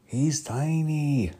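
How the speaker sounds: loud, high, slow Scottish growl of delight; Fat Bastard voice. Retold or imitated. Fat Bastard to Doctor Evil, loud high Scottish voice. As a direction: belt it out like a greedy Scottish brute. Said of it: "The fat bastard character says to".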